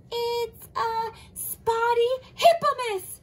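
high, slow, uncertain naming; unsure. Acted. Pelican struggling to recall the animal's name for Monkey. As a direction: stretch it out, unsure of the word.

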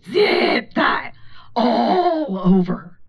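slow, lightly voiced old woman; old lady. Old lady inspecting her body, slow and lightly voiced. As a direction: drawl it out like her.

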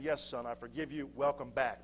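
low, soft words of welcome; gently forgiving father. Acted. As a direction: forgive him quietly, voice dropped. Forgiving father welcomes son home.

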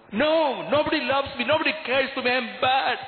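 a hint of a hurt boy protesting; boy's protest. Boy telling the priest nobody loves him, insistent.

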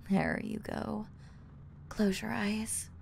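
slow soft whisper; soothing whisper. Acted. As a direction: ease them into sleep. Lulling to sleep.

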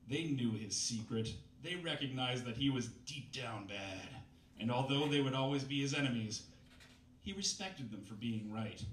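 lightly overwrought novel narration, slowing on big lines; dramatic story reading. Acted. Comedian reads a bad novel to the crowd, mock-dramatic narration. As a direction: read the purple prose with mock gravity.

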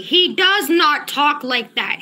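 slow, weighted "does not talk"; emphatic insistence. Real, not acted. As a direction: press firmly on each word of "does not talk". Insisting once more, exasperated.

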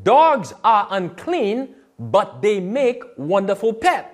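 dragged out slowly, leaning on dogs; slow it right down to make them listen; slow pointed quote. Retold or imitated. Quoting the host slowly so viewers catch it. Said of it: "He said".

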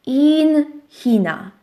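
powolne czytanie. Shown as a demonstration. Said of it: "Na papierku było napisane".

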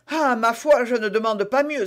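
mildly eager exclamation; exclamation empressée. A narrator's reading. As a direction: agree readily, starting a little high. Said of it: "s'écria Bonacieux". (s'exclamer avec un léger empressement)

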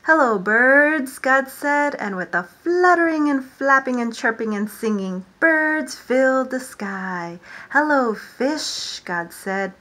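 lively storytime reading, God's hellos called out; animated picture-book read-aloud; reading to children. Acted. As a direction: read it to a class of little ones. Reads creation story to children.

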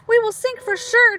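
high, loud mock wail. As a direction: wail in panic together. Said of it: "wail together".

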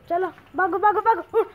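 excited shout at the dog; excited chase call. Real, not acted. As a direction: shoo her on playfully. Chasing the dog.

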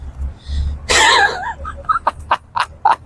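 a high, squealing cackle that breaks off; shrill mocking cackle. Streamer in character cackles at his own bit, squealing high. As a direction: cackle like a cartoon villain.

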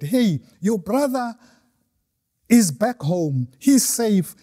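a hint of an excited servant breaking good news; eager servant. Servant telling the elder son his brother returned, lightly excited.

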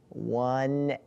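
long, stretched-out words; slow, uncertain guessing; drawn-out guess. Pretend. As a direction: hold each word while searching for the answer. Guessing a whispered phrase.

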